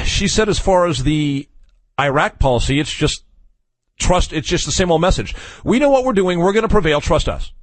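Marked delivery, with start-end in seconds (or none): 5.6-7.5 higher, mock official confidence. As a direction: parody the smug official line. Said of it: "That's exactly how I read it".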